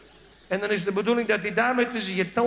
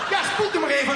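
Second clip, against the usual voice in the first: dentist; 7 semitones higher than usual. Retold or imitated. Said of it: "dentist speaks".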